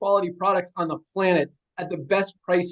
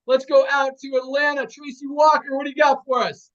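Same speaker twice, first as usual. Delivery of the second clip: raised-pitch handover; announcer introduction; 5 semitones higher, 3 dB louder than usual. Real, not acted. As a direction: call up the next speaker with energy. Host introduces the next speaker.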